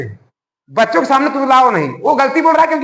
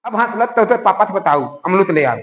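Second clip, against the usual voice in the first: put-on adult baby talk; 5 semitones lower than usual. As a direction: answer in the child's lisp, अमरूद as amlud. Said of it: "उसी की भाषा हम बोलते हैं".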